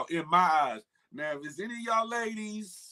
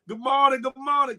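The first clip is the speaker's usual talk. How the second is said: cheery greeting; 6 semitones higher, 7 dB louder than usual. Real, not acted. Greeting viewers.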